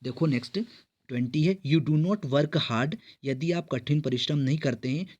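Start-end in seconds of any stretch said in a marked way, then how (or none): 1.7-3.0 slow reading. Shown as a demonstration. Teacher reads exam sentence slowly.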